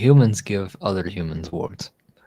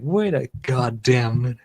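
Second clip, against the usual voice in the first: put-on Australian accent; 3 semitones higher, 3 dB louder than usual. Host acting out the video line, in an Australian accent. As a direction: mimic a startled Australian. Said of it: "saying that I have a good Australian accent".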